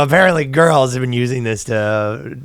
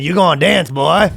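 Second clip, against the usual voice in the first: hammed-up higher-pitched threat; gunslinger dad; 5 semitones higher than usual. Dad ordering son to dance, mock threatening. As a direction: play a mock Western bully dad.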